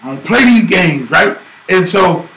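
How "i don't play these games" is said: tough talk. Retold or imitated. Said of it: "I said".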